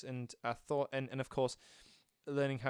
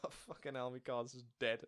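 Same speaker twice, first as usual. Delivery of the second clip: muttered quote; 7 dB quieter than usual. Retold or imitated. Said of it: "he's just like".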